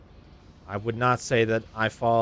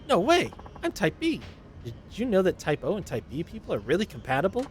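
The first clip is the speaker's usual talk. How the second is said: higher, gushing flirt; flirty passenger; 8 semitones higher than usual. Acted. Flirty passenger gushing at taxi driver Takun, higher voice. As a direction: coo at the driver like you're smitten.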